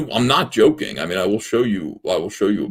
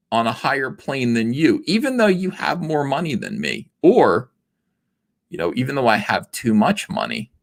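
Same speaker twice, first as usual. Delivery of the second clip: self-righteous activist; 3 semitones higher than usual. Retold or imitated. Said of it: "Be like".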